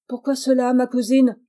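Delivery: naive question. Acted. Charles asking his furious cousin, feigning innocence. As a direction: play the innocent. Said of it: "dit Charles naïvement".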